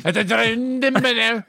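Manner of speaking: high, slow words dissolving into laughter; breaking up laughing. Acted. Podcast guest joining improvised café bit, breaking up laughing. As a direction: try to finish while helpless with laughter.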